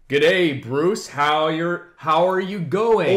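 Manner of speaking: fake Australian accent. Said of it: "it's always a".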